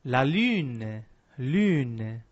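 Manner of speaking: lune with French u, lips rounded; French la lune, rounded front vowel. Shown as a demonstration.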